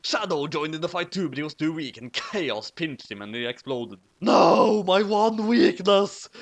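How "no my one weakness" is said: high, loud anguished cry; high shouted despair; shouting. A narrator's reading. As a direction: wail it like a defeated villain. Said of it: "shouted Shadow".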